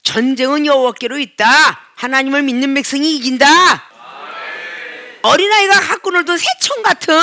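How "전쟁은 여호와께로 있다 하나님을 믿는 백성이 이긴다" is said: ringing, confident proclamation; bold declaration. Retold or imitated. David answering Goliath, a bold ringing declaration. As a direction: declare it boldly like a young warrior. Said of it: "아주 담대하게".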